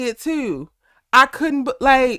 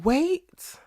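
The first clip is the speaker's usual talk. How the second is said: mock scream, voice sweeping higher; retold scream; 5 semitones higher than usual. Fan retelling Kane tied to the chair, mock scream. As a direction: imitate a desperate cry without full volume.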